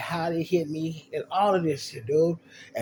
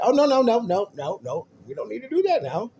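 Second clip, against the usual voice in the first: mock panic; 9 semitones higher, 5 dB louder than usual. Panics when police are mentioned.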